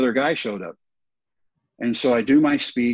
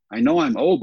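sudden much higher, louder protest; a retold, pitched-up cry of frustration; exasperated cry; 4 dB louder than usual. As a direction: throw it up high in mock despair. Retold despairing inner thought.

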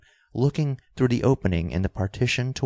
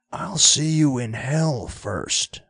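slow, raised-pitch angry outburst; higher, drawn-out narrated raving; raving defiance; 6 semitones higher, slower than usual. A narrator's reading. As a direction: rave it defiantly, drawing the words out. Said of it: "raved old Luke Evans".

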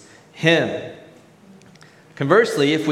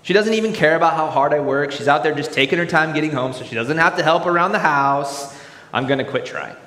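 bitter cynic; 2 semitones higher, faster than usual. Acted. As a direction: rant like a resentful cynic.

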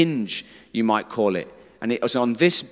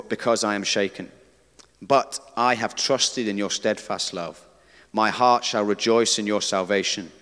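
scripture reading; 3 semitones lower than usual. Acted. Reads Psalm 13 aloud.

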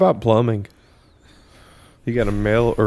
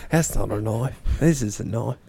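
put-on Australian accent. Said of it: "that's a better Australian accent".

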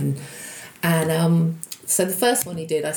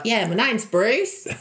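slow, lightly put-on Australian accent, a touch higher; a hint of a broad Australian accent; 4 semitones higher, slower than usual. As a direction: introduce yourself as a laid-back Australian called Bruce. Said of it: "Can I be an Australian?".

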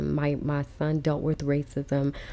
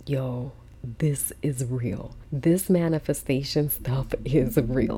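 awed whisper; 3 semitones lower, slower than usual. Retold or imitated. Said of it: "I just was like".

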